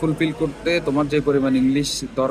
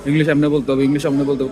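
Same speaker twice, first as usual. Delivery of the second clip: louder, preachy parroting of the tutors' rule, said twice; mock teacher quote; 4 dB louder than usual. Mocking English tutors to his viewers, louder and scornful. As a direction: sneer it back like a know-all tutor. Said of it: "কে বেটা English এমনি করে কইতে হইছে".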